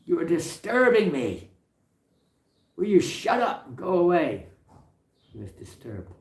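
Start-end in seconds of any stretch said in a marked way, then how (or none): 0.1-4.5 high, loud, indignant scold; shrill-pitched loud complaint from across the road; complaining. Retold or imitated. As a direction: tell them off like an annoyed neighbour.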